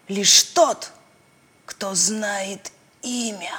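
slow, hushed ominous recitation; ominous reading aloud. Acted. Girl reads cursed verse aloud in the cave, slow and ominous. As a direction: read the curse like a grim spell.

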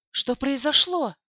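demanding. A narrator's reading. Knight demands what happened.

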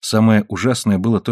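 plain reading voice

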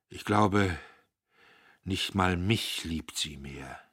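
a father fighting tears; holding back sobs. Acted. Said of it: "das Schluchzen unterdrücken". (unterdrücktes Schluchzen, leise)

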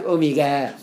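"أوميجا" said "omiga", with hard g; Egyptian hard g. Shown as a demonstration. Teacher showing Egyptian spelling, "أوميجا" with hard g. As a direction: pronounce "أوميجا" with a Cairene g as in go. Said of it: "بالجيم".

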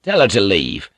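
curt, firm order; a cold, clipped command; firm demand. Acted. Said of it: "Blackthorn's words ricocheted".

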